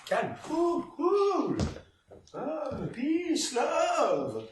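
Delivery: self-calming. Acted. Director calming himself down.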